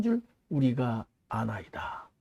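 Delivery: whisper. Acted. Pharisees' claim read out, slow whisper. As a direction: let the words fall to a hush.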